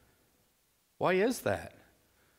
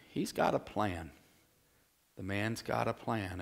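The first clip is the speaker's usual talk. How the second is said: hushed; 3 semitones lower, 6 dB quieter than usual. Acted. Hushed foreboding about Laban.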